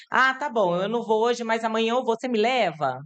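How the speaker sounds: levemente encenada, mais aguda; criança compreensiva imaginária. Acted. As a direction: imitar de leve uma criança negociando. Encena criança aceitando com calma. (criança compreensiva, voz levemente encenada)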